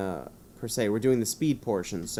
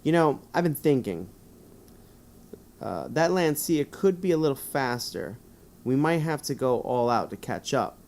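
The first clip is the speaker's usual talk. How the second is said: 1 playing the driver; 4 semitones higher, 4 dB louder than usual. Speaks as the player driver.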